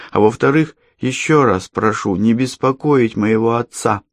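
put-on high, scornful girl's voice; defiant girl. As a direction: brush her off like a child.

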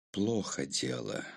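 low, subdued, frank admission; honest admission. A narrator's reading. Narrator reporting bad news to Mark, low and frank. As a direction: own up quietly to bad news. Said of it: "честно сказал я".

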